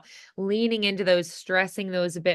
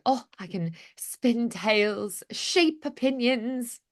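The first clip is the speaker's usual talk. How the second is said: bragging; 4 semitones higher, slower than usual. Shown as a demonstration. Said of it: "Then you're kind of bragging about it".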